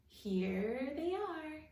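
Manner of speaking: plain reading voice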